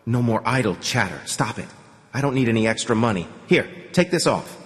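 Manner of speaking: ordinary talk, nothing marked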